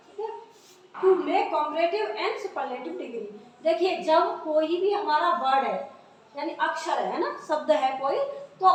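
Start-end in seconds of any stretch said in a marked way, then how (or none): 0.9-3.3 slow, deliberate dictation of an English rule; dictating a rule. Shown as a demonstration. Teacher dictating the rule to the class, slow and deliberate. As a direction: read each word out slowly so pupils can write it.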